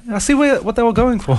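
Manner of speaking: high, lightly posed art critic; art snob voice. Retold or imitated. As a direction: play a pretentious gallery critic. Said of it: "So just like an art snob".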